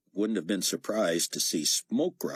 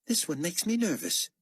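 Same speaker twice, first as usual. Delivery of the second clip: Carpathia voice; 11 semitones higher than usual. Acted. Carpathia voiced character line.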